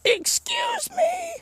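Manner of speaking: very high, slow, drawn-out "Excuse me!"; shriek-stretch each "Excuse me" way up high like the booed heel; hammed-up high mock heel screech, slow and insistent; Vicky Guerrero's "Excuse me!". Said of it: "you know, like".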